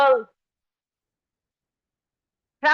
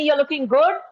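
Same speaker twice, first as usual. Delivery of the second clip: lightly imitated army father; matter-of-fact praise, no gushing. Army father praising child, matter-of-fact. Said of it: "It was the army way".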